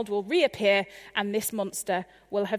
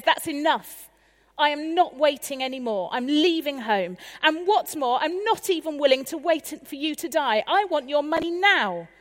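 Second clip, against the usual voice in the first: put-on raised, demanding teenage outburst; defiant teenager; 3 semitones higher than usual. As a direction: throw it at your dad. Son demands inheritance from father.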